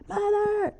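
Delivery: high called "Mother!"; calling out. Retold or imitated. Sister calling Mother from the doorway, high call. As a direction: call her from across the shop. Someone calls her.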